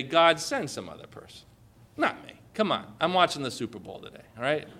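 casual mock brush-off, hurried at the end; lazy brush-off. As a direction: toss it off like someone who'd rather watch football. Congregation's lazy excuse mocked.

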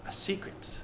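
breathy whispered "a secret". Acted. Pastor to the congregation, sharing a secret in a whisper.

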